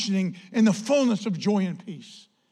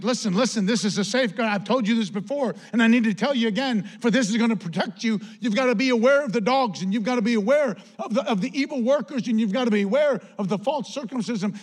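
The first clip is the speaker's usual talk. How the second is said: raised, driving warning; emphatic apostle; 4 semitones higher, 5 dB louder than usual. Retold or imitated. Apostle warning the church of evil workers, emphatic. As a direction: hammer out each warning as the apostle. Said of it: "saying this in, in neon sign".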